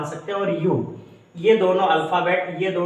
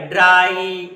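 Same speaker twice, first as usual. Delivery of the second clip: ड्राई said with full weight on आई; full force on the word; 4 dB louder, much slower than usual. Shown as a demonstration. Teacher showing the class how to lean fully on ड्राई. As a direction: hit ड्राई hard, leaning on its final आई. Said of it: "पूरा बल लगा के".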